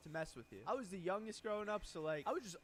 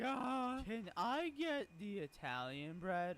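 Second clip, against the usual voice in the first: put-on little kid ordering; much slower than usual. Kid picks bread.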